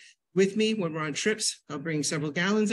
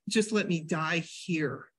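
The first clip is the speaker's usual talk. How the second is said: slow, softer moaning plea; mock dying moan; 2 semitones lower, 4 dB quieter, slower than usual. Lying in pain on the seat, slow soft mock moan. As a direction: groan it slowly, softer, like dying. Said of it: "I was laying on the front seat going".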